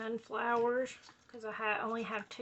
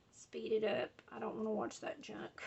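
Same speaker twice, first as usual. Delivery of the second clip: hushed imagined viewer complaint; mock viewer whisper; 7 dB quieter than usual. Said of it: "if y'all say".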